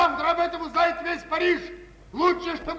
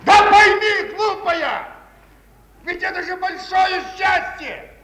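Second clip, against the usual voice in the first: exasperated shouting; 3 semitones higher, 3 dB louder than usual. Acted. Husband shouts down his wife.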